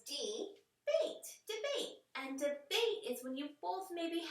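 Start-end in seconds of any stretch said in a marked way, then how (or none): 0.1-1.2 slow modeled word. Shown as a demonstration. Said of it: "the next word that we have is debate". 1.5-2.0 high repeat. Shown as a demonstration. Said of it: "the next word that we have is debate".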